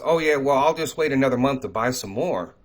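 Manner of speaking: mock casual procrastinator. Imitating people who would wait another month, mock casual. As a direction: lightly act out an unbothered "I'll do it later" reply. Imagined procrastinator's reply, acted out.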